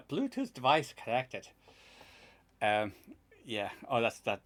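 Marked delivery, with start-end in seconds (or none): 0.1-1.5 imitating the Bluetooth chip's odd accent, slowed; lightly mimicked device voice; mock device voice accent. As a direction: parody the gadget's robotic announcement. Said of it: "I don't even know what accent that was".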